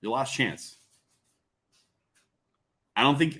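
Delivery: ordinary talk, nothing marked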